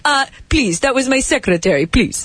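put-on protesting Persian accent; imitating a flustered Persian suitor; Persian man impression. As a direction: plead innocence in a Persian accent. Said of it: "do you want me to do the exact impression".

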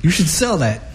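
laughing through the words; cracking up while joking. Retold or imitated. Retelling a joke to a bum.

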